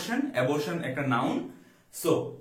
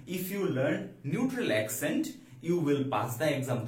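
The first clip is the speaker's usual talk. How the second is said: slow dictation; much slower than usual. Shown as a demonstration. Teacher repeats example slowly.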